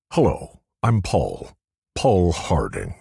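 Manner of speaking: lightly put-on Scottish accent; a teasing hint of Scottish accent. A narrator's reading. Riley mimics Paul's pickup line, in a Scottish accent. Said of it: "said it in a deep Scottish accent".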